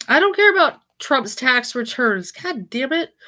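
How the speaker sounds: annoyed. Real, not acted. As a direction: snap at the screen. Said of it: "Let me try it again".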